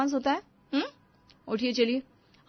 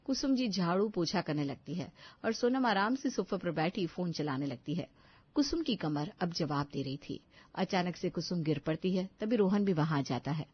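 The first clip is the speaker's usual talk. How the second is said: soft, even storyteller voice; story narration; 2 semitones lower, 4 dB quieter than usual. A narrator's reading. Narrator telling the audience how Kusum falls, soft storytelling. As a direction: tell it like a narrator.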